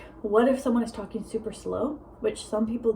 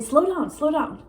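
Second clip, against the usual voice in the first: higher, slow mock scolding; mock chiding; 6 semitones higher than usual. People correcting a fast talker, slow mock chiding. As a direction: imitate people telling you off for talking fast. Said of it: "don't have to say it like that".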